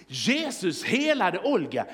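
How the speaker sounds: slow, emphatic, astonished headline; amazed second reading. Acted. Preacher looking twice at the placard, amazed emphatic reading. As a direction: read JESUS HELADE OLGA out slowly with amazed emphasis. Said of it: "jag får se en gång till".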